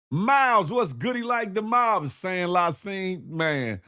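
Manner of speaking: muffled helmet voice, slow at the end. Acted.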